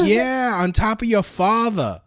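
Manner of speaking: high, loud grandma comeback; jokey impression of a sassy grandmother; imitating grandma. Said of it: "And she's like".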